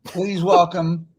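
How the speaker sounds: slow, drawn-out pre-recorded announcer; mock announcer. Ship's recorded message bringing Greg on stage, slow mock announcer. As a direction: announce it slowly like a ship recording. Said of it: "pre-recorded message".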